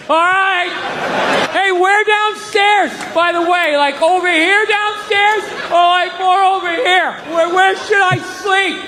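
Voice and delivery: mock innocent. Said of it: "like Linus".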